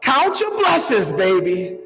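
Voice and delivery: put-on a loving nod to a Mississippi grandmother's Southern accent; Southern grandma. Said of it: "in this, like, really deep Southern accent".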